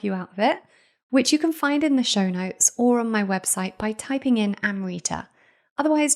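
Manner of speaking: smooth, even sponsor read, softening at line ends; host reading a supplement sponsor message to listeners, ad voice. Acted. Host thanks the sponsor in a polished ad read.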